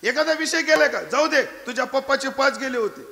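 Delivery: consoling mother. Acted. Mother comforting her crying son over his results. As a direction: play the fussing mother.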